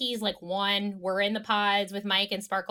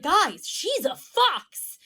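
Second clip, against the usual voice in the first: high, slow bro proclamation; imitating an excited boast; hyped-up announcement; 7 semitones higher, 4 dB louder, much slower than usual. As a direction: announce it to the guys, stretched out and high. Acts out him announcing to the guys.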